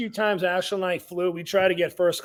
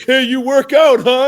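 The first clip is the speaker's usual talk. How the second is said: louder, higher meathead chat-up; lightly hammed-up gym guy nudging a stranger; mock gym bro; 6 semitones higher, 9 dB louder than usual. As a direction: lampoon the seatmate who won't stop talking. Mocking a chatty gym seatmate.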